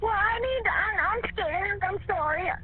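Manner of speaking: fighting panic, apologizing; frightened and halting; scared. Real, not acted. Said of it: "Calm down for me".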